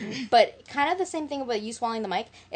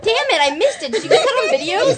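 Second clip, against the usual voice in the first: higher voice, laughing while talking; breathless giggles between words; 10 semitones higher, 4 dB louder than usual. Real, not acted. Missed the mic moment, laughing.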